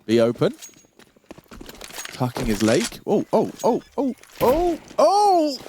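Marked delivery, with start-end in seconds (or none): 3.1-5.6 rising hype yells; excited shouting. Real, not acted. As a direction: shout it out as the play lands. Big play reaction.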